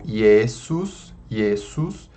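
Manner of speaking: "Iesus" starting with an I glide. Shown as a demonstration. Teacher modelling Latin J, "Iesus" begun with I. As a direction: say "Iesus" as "ye-sus", no J sound. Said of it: "é igual o I".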